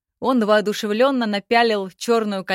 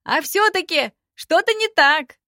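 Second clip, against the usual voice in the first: much higher, louder squeaky goblin; Dara's voice; 8 semitones higher, 6 dB louder than usual. A narrator's reading. Dara teases Yoza about the mail, much higher. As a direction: needle the elf, shrill and loud. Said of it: "стоял на своём Дара".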